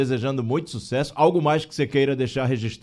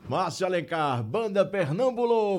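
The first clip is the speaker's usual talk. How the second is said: radio announcer. Real, not acted. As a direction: announce the band like a radio host. Radio host announces the programme sign-off.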